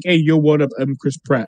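put-on casual, unaccented Mario; Chris Pratt. Joking Mario greets Bowser in an ordinary voice, deadpan. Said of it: "with Chris Pratt's voice".

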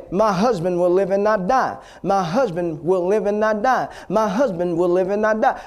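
imitating the wife gaining conviction; growing authority. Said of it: "Say it with authority".

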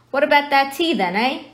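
hearty giant character, lightly done; genial giant. Acted. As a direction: offer tea heartily as a big giant. Genial giant offers tea in story.

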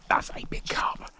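breathless awed whisper. Real, not acted. Angler awed by his catch, whispering. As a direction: hush it, awed by the big fish.

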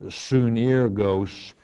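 sunergos said slowly as soo-ner-gos with a long o at the end; Greek word said carefully. Shown as a demonstration. Host answers caller, saying the Greek sunergos slowly as soo-ner-gos. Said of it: "the word companion does".

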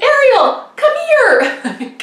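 high, loud call across the yard. Retold or imitated. Girl calling her friend Ariel out of the house, loud and high. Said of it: "she calls to her".

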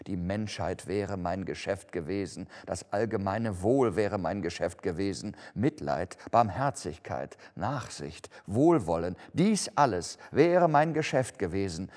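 declaiming lament, building in force; anguished ghost. Acted. (klagende, sich steigernde Geisterstimme)

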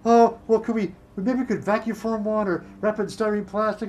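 lightly acted fretting; mock freaking out. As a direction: imitate the panicked boss grasping for options. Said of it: "are freaking out, like".

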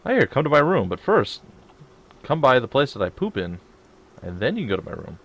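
high, loud mock invitation; mock welcoming host. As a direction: playfully voice the host. Mock host inviting through bathroom.

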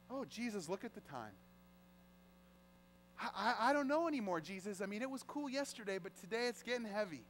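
soft, backing-away excuse, acted out; hesitant doubting. Follower excusing himself to Jesus, hesitantly doubting. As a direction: make a quiet, halting excuse to slip away. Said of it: "we start doubting".

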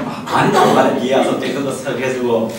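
husband's line through laughter; retelling his husband's sweet offer, laughing; laughing husband quote. Retold or imitated.

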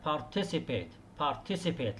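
participate stressed on the second syllable, par-TI-ci-pate. Shown as a demonstration. Teacher modelling par-TI-ci-pate for students. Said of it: "التركيز على المقطع الثاني".

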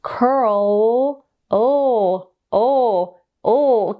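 "curl" with a strongly curled r and L, then oh; curled English L. Shown as a demonstration. Coach demonstrating English curled tongue to students. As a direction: roll the tongue back on "curl". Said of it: "what you wanna do in English".

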